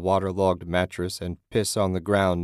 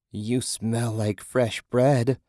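creepy hungry hag; 4 semitones higher, much slower than usual. A narrator's reading. Naked woman sniffing Susan.

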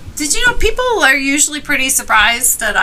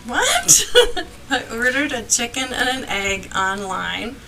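laughing; 3 dB quieter than usual. Real, not acted. Laughing repeating the joke.

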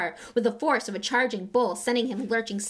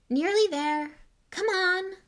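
coaxing the car, higher pitched; cajoling; 11 semitones higher, 4 dB louder, slower than usual. Acted. Ron pleading with the sputtering car, coaxing. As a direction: plead with the car to keep going. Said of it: "said Ron cajolingly".

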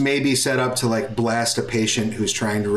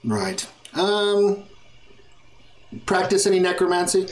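prim, higher clerk voice; a lightly voiced fussy receptionist; 6 semitones higher than usual.

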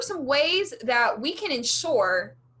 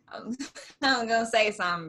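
laughing whisper. Real, not acted. Whispered aside, holds back.

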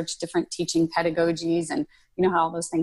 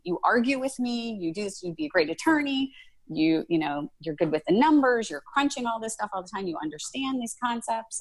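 mentor's enthusiastic push; 6 semitones higher than usual. Retold or imitated. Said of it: "He's like".

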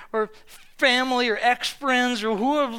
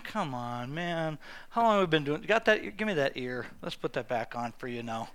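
much lower, much softer, easygoing; low and gentle, like calming a friend; relaxed hushed reassurance; calm, soft Jesus; 9 semitones lower, 9 dB quieter than usual. Retold or imitated. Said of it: "Jesus like".

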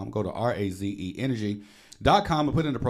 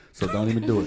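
laughing; 5 dB louder, much faster than usual. Real, not acted. Laughing at his own tax joke.

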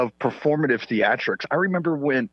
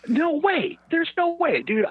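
much higher, almost a squeal of disbelief; can't believe it, let it leap up high; incredulous; slower than usual. Real, not acted. Rejects the election numbers.

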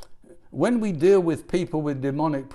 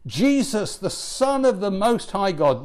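loud, raised-pitch retold shout; shouted demon's cry; 4 semitones higher, 4 dB louder than usual. Preacher quoting the possessed man shouting at Jesus, raised shout. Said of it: "he shouted at the top of his voice".

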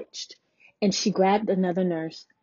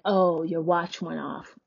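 dry, slow, lower mock-sarcastic nurse; 5 semitones lower than usual. Mimicking a nurse dismissing her watch alarm, sarcastic. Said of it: "Very sarcastic".

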